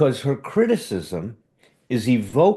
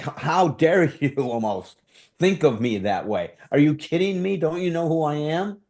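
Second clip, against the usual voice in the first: indignant, offended outburst; mock-indignant how-dare-you; aggressive defensive energy; 4 semitones higher than usual. Shown as a demonstration. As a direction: show the hurt pride flaring up. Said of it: "I can even show you what it feels like".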